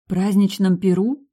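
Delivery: a high startled squeak; squeaky echo of the invitation. A narrator's reading. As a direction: squeak it out in disbelief. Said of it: "пискнула я".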